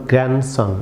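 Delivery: গ্র্যান্ডসন with a nasal N and no D; nasal sound. Shown as a demonstration. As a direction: hum the N in গ্র্যান্ডসন, "grann-son". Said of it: "nasal sound". (গ্র্যান্ডসন-এ নাসিক্য ন, ডি ছাড়া)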